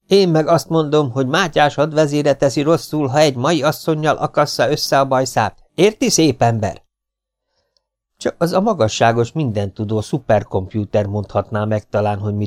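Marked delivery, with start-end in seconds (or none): 0.1-6.8 higher, louder, mocking woman's retort; defiant housewife. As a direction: throw his words right back at him. Hollóné retorts to Kinizsi. (magas, gúnyos, dacos asszonyhang)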